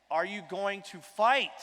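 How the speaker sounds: slow, rousing call to the crowd; stretched-out rally cry. Real, not acted. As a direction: fire up the room. Calling out to the crowd.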